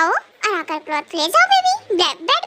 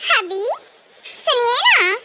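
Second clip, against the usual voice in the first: sweet coaxing; much slower than usual. Acted. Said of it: "मोहतरमा जी बहुत प्यार से बोल रही हैं".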